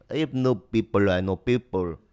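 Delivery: lightly imitated Korean accent; JYP. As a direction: give a hint of a Korean man's accented English. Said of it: "a Korean guy ... he goes".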